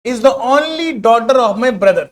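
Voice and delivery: very slow, word by word, like dictating; slow dictation reading. Shown as a demonstration. Teacher reading the exam question to students, slow dictation. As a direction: spell the question out slowly for the class.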